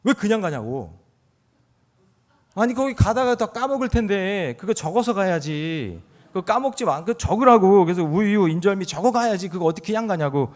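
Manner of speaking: put-on half-hearted grumpy old man nagging; grandpa scolding. Grandpa nags wife to write it down, mock scolding. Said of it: "화를 내는 거예요".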